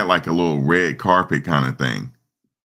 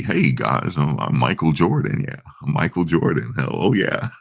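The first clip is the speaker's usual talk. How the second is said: mock TV Michael Jordan. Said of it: "when he's on, um, regular T V".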